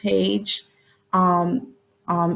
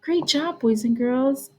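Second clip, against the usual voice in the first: excited praise; 6 semitones higher, slower than usual. Shown as a demonstration. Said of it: "praising the spelled word".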